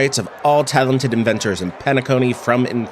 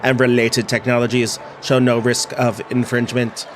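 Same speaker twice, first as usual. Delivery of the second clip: monotone machine readout; robot voice. Acted. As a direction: speak like a scanning robot. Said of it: "I'm impressed with my own robot voice".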